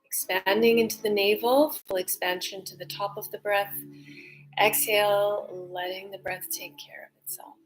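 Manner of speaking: guided meditation. Acted. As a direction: guide the breath gently, letting go. Leads a breathing meditation.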